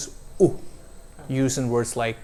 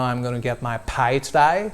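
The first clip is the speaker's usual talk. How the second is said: Australian accent. Shown as a demonstration. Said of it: "an Australian would say".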